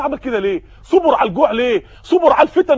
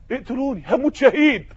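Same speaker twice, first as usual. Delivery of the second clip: quiet defiance; 6 dB quieter than usual. Acted. Captive answers threat of death.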